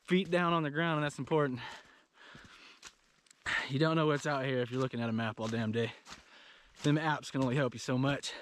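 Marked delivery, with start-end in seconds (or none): 3.7-8.3 talking out of breath after a hike; breathless, catching air between words. Real, not acted. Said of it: "Sorry, I'm out of breath".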